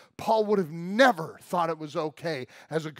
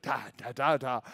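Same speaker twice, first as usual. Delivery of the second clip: a light baby imitation; baby babble; 4 semitones lower than usual. Shown as a demonstration. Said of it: "when they see you".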